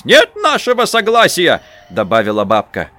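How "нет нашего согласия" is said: granny's refusal. A narrator's reading. Grandmother refuses.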